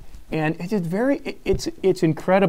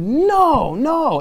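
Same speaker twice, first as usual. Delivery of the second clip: firm no; 8 dB louder than usual. Retold or imitated. Guys answering firmly.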